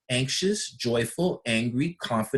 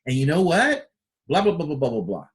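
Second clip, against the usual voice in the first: confident and excited. Retold or imitated. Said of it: "Or somebody's like".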